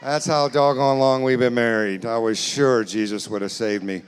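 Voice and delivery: loud mock weary wife; exasperated wife. Comedian voices a wife sick of her long marriage, exasperated. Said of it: "She's like".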